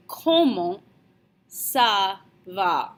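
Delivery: "comment ça va" broken up word by word; C sounds contrasted. Shown as a demonstration. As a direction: separate "comment", "ça", "va" to show the two C's. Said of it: "Note the difference in the C's".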